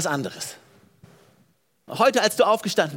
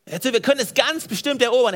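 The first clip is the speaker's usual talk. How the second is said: confident call; 6 semitones higher than usual. Acted. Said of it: "Er sagte".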